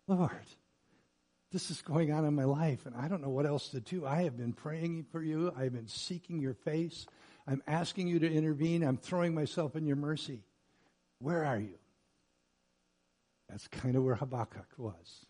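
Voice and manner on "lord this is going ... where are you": softly pressed appeal to God; pleading prayer. Acted. Believer praying for God to intervene, softly pleading. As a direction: plead quietly, piling up each appeal. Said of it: "ever prayed like this to the Lord?".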